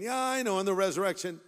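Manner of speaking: acted reply, voice lifted as if already knowing; brushing it off. Martha answering Jesus about her brother, brushing it off.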